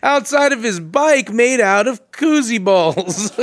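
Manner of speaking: hammed-up announcer reading a mock headline; mock news headline. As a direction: announce it like an absurd breaking story. Mock headline about the story.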